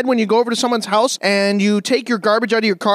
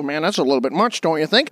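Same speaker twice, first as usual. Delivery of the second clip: calm low remark; 8 semitones lower, 3 dB quieter than usual. Retold or imitated. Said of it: "people look at me and go".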